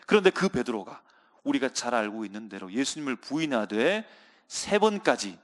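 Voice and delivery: ordinary talk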